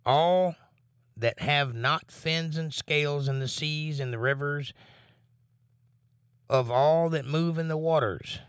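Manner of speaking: solemn pulpit reading; scripture reading. Acted. Reads scripture aloud.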